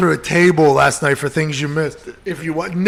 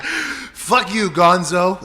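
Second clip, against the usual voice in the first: mock rude hello, laughing through the name; imitating Pat on the phone; 3 semitones higher, much slower than usual. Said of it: "That's exactly how I would talk".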